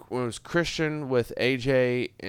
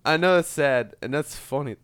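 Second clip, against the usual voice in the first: talking through hiccups; 2 semitones higher than usual. Real, not acted. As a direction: speak while hiccuping. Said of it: "Sorry, I'm hiccuping".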